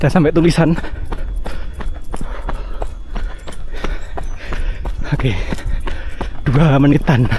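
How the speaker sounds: talking while jogging, breathing hard; while running. Real, not acted. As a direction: speak mid-run, short of breath. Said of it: "Ngomong sambil lari, emang gak enak".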